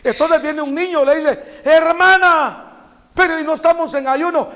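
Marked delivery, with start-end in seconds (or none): 1.6-4.5 put-on surprised child. Child questions fasting leader.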